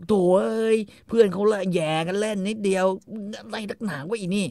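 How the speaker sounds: high, whiny excuse; husband brushing off his wife; mock exasperated husband. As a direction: whine it out, drawn at the end. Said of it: "ไอ้คาร์โลก็บอก".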